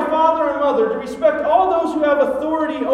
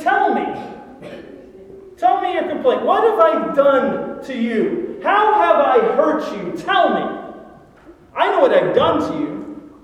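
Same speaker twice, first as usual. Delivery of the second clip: God pleading. Acted.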